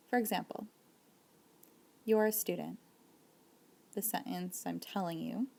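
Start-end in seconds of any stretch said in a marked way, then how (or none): 2.0-2.8 "You're a student" said as a statement, no rise. Shown as a demonstration. Teacher telling someone they are a student, statement tone. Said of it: "my voice is flat".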